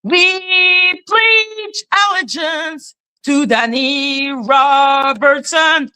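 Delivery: mock pledge of allegiance; mock solemn pledge. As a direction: intone it like a cult oath.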